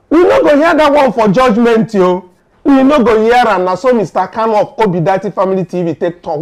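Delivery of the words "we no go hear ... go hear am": high, loud insistent declaration; emphatic declaration. Retold or imitated. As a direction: insist hard, raising the voice. Quoting a fired-up commentator.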